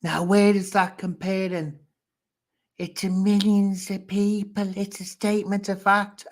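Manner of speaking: high-pitched, worked-up arguing; exasperated challenge. Real, not acted. Arguing with Carrie over her comparison, exasperated. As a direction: push it out high, demanding an answer.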